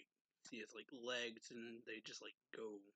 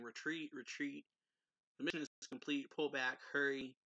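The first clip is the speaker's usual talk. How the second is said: raised voice, a mild mock shout; retold yell; 3 semitones higher, 6 dB louder than usual. Sect member yelling orders to retreat, mildly raised mock yell. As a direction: call the retreat, a little louder. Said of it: "one of the members yelling".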